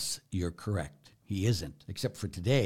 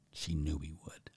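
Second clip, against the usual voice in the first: whispered, almost breathless; hushed whisper; 5 semitones lower, 9 dB quieter than usual. Real, not acted. Priest whispering to his congregation about her faith, hushed. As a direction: let it drop to a whisper of awe.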